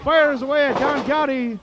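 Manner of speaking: play-by-play. Real, not acted. Live wrestling play-by-play.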